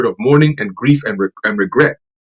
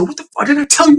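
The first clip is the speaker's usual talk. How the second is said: imitated losing it; 12 semitones higher, faster than usual. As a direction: imitate a man losing his temper. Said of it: "he's losing it".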